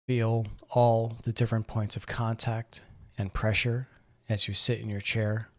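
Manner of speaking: calm, measured meditation guide, long pauses between phrases; guided meditation. Acted. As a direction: gently guide them into breathing and relaxing. Leads a seated breathing meditation.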